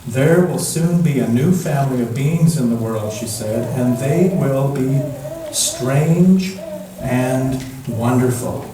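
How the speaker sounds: put-on gentle storybook reading for children; story narration. A narrator's reading. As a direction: read it like a bedtime picture book. Reads picture book to children.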